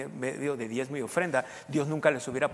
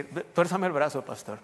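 slow playful plea; slower than usual. Retold or imitated. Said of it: "yo le dije así".

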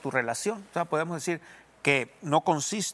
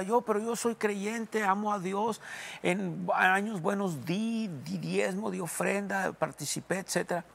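mock self-justifying believer; 5 semitones higher than usual. Imitating a defensive believer.

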